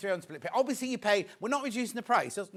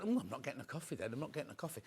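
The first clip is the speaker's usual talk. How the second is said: soft, fast, grumbling under the breath; mock sulky mutter; 5 semitones lower, 11 dB quieter, faster than usual. Telling viewers about the missed coffee, soft sulky grumble. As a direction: play up the self-pity. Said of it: "So I was like, going".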